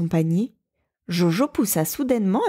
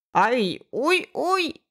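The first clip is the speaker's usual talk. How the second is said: cavernous voice; 6 semitones higher, much slower than usual. A narrator's reading. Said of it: "d'une voix caverneuse".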